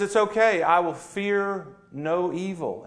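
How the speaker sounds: a little sheep with no fear at all; bright, confident sheep reassuring. Acted. Preacher voices the calm sheep.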